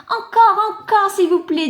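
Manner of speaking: high, loud eager begging. Acted.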